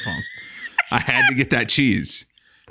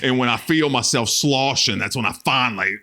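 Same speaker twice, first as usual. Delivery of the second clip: hammed-up redneck; 2 semitones lower than usual. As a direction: keep the proud leaking snacker going. Continued redneck character monologue.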